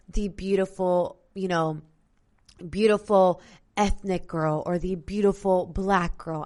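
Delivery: dry mocking tone on beautiful; sarcastic. Real, not acted. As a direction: say it with an ironic sneer. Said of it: "sarcasm in my tone".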